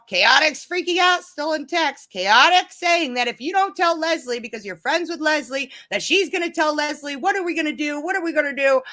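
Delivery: mock panic, what are we gonna do; imitating Tracy. Quoting Tracy's worried texts.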